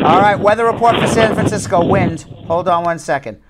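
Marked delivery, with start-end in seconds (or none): 0.0-2.2 mock weather report. Joke weather report on windy caller.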